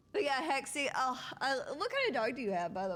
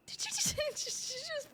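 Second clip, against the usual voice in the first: laughing; faster than usual. Real, not acted. Laughing disbelief.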